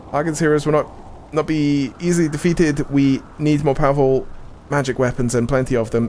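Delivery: lightly put-on Welsh accent. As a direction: reread it with a hint of Welsh accent. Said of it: "put up the Welsh voice".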